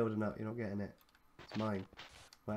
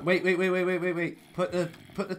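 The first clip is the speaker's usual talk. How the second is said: urgent; 5 semitones higher, 6 dB louder than usual. Real, not acted. Urgent stopping teammate.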